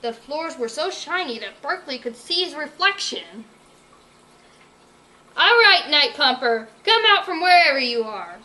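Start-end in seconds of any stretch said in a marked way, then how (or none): 5.4-8.4 loud barking call; barked. Acted. Berkeley calling the villain out of hiding, loud bark. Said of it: "Berkeley barked".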